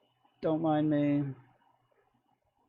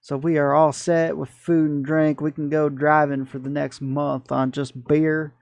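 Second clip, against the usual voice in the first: put-on good old Southern boy. Trucker boasting to his crew about beer and chili, mock Southern accent. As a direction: ham up a folksy Southern trucker buddy. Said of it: "talk like a good old Southern boy".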